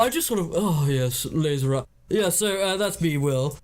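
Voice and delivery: upper-class ennui, sighing; world-weary posh impression; lightly put-on bored toff; posh Will. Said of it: "upper class ennui".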